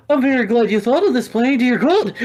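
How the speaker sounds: put-on high, loud Australian accent. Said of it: "What was that accent?".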